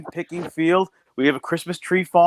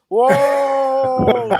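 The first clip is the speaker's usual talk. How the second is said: loud, high indignant whoa; mock outraged shout; 7 semitones higher, 5 dB louder than usual. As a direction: rear back like you've been insulted. Retold outburst at shopper.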